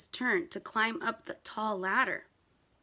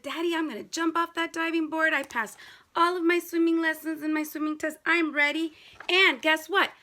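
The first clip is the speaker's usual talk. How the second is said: put-on eager kid voice; 2 semitones higher, 3 dB louder than usual. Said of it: "Jabari said".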